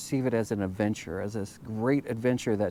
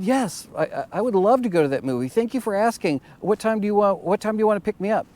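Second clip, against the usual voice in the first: eager yes; 9 semitones higher, 5 dB louder, faster than usual. Retold or imitated. Girl accepting the date.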